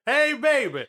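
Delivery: high imitated silly call; weird voice. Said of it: "why is your voice so weird".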